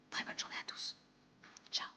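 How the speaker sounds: soft whispered goodbye. Real, not acted. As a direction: breathe the farewell. Whispered sign-off.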